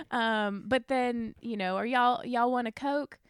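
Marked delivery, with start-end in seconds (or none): 1.8-3.2 slow, a touch of Southern drawl; mildly drawled Virginia Southern accent; Southern hospitality. Retold or imitated. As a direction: offer it like a friendly Virginia host. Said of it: "Like that".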